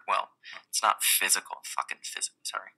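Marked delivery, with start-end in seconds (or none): 1.6-2.7 hushed swear and sheepish sorry under the breath; a quick whispered apology to physicalists; whispered aside. Real, not acted. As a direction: drop to a whisper for the cheeky aside.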